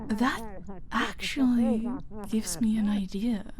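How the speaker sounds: sly whispered idea; scheming whisper. Acted. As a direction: let the plan dawn on you, hushed. Villain plotting aloud.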